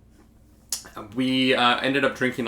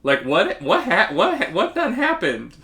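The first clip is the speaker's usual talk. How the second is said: baffled disbelief. Retold or imitated. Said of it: "And I'm like".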